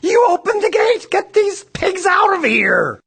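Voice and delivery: loud, high furious shout; angry yell. A narrator's reading. Father furious about the pigs, loud angry yell. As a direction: roar it, slow and drawn. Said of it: "yelled her father".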